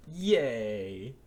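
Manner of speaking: loud happy cheer; happy yay. Real, not acted. Game won, cheers.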